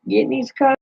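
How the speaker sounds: words stretched through a yawn. Real, not acted. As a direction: talk while yawning, sleepy. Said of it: "I'm so sorry I'm yawning".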